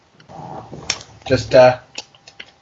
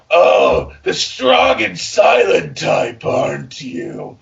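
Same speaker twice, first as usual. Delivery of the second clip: hammed-up seduction; much slower than usual. Reading seductive fanfic dialogue.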